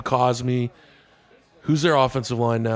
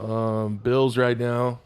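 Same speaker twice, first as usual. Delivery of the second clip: heavy breathing; much slower than usual. Real, not acted. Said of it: "why are you breathing so heavy right now".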